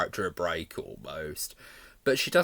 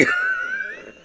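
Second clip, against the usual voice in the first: laugh; 4 dB louder than usual. Real, not acted. Laughing at the line.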